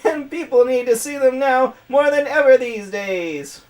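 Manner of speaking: high, loud cartoon villain voice; Skeletor. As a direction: keep the screechy skeleton villain going. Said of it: "I'm gonna give her Skeletor's voice".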